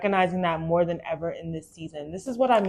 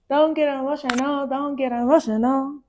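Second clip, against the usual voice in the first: fighting tears; 7 semitones higher than usual. Real, not acted. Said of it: "I'm about to get emotional".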